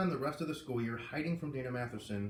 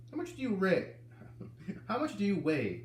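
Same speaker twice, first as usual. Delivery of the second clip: not unpleasantly; 6 semitones higher than usual. A narrator's reading. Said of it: "not unpleasantly".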